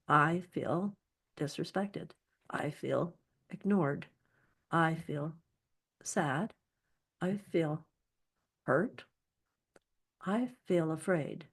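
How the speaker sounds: measured, slightly soft statements with pauses; name each feeling plainly, without blasting it; simply expressed feelings. Shown as a demonstration. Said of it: "They simply get expressed, like this".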